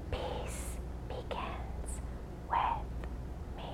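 soft slow whispered mantra. Shown as a demonstration. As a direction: breathe the words out with no voice. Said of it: "Can you whisper?".

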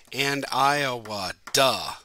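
"Mister Todd Harvey" slow, each syllable its own beat; clapping syllables. Shown as a demonstration. Teacher claps out the haiku's syllables, slow and even. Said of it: "if you clap out the syllables".

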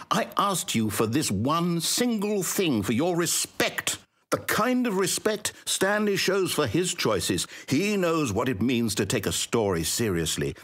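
hurt narrator lashing out at a stubborn player; wounded anger. Acted. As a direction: scold the player, rising to a cry of coward. Narrator scolds player for refusing.

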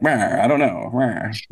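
light mock 1940s movie voice; a hint of forties Hollywood accent; imitated Mid-Atlantic accent. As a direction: mimic old-film Mid-Atlantic mumbling. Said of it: "Why do people talk like that?".

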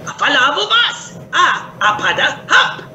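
high, gravelly creature gibberish; gravel-throated Podling. Acted. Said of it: "So Hup would say".

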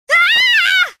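high sharp cry of pain; sudden hurt shriek; pained yelp. Acted. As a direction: yelp as if struck.

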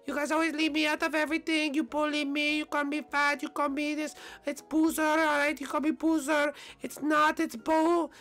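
high, fast, pleading whine; whiny Bowser voice. Acted. Bowser begging the others to invite him, high whiny plea.

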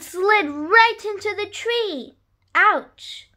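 put-on lively read-aloud rhyme for children; story narration. A narrator's reading. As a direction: read it like a bedtime picture book. Reads a rhyming picture book.

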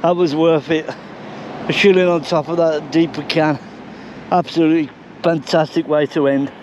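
catching breath while talking. Real, not acted. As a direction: still panting a little. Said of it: "I'm out of breath".

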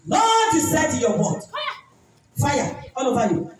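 loud commanding prayer; fervent prayer. Real, not acted. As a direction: pray it over her with force. Prayer command over the woman.

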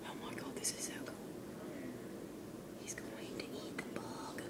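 fast, very soft whisper; excited whisper. Real, not acted. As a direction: whisper fast so you don't scare it. Breathless whisper while watching.

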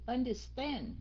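"Understand" with the weight on stand; third-syllable stress. Shown as a demonstration. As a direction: punch the last syllable of "Understand". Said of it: "nhấn âm thứ ba nha". ("Understand" nhấn âm thứ ba)

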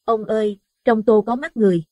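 high, loud horrified cry; terrified scream. A narrator's reading. Wife screams at eyes in her soup, high and loud. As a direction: scream it as she drops the bowl. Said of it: "bà vứt tô cái choảng xuống đất hét lên".

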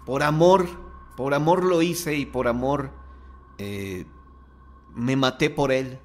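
half-acted hysterical girl, building on por amor; mock hysterical cry. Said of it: "y gritando dice".

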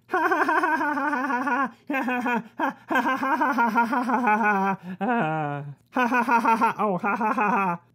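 long cackling villain laugh; fast, maniacal laughter on and on; wild unhinged ranting. Acted.

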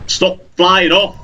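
high, drawn-out exasperated plea. Real, not acted. Player to the bird escaping him, exasperated. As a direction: call after it in frustration. Calling at fleeing game creature.

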